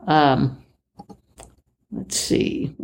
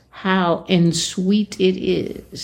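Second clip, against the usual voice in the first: Jackie Gleason line; 2 semitones higher, slower than usual. Retold or imitated. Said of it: "the old Jackie Gleason line".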